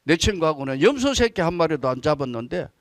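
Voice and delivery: lightly acted grievance, rising on the last line; angry elder son. Elder son protesting to his father, mildly mock angry. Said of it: "막 화내니까".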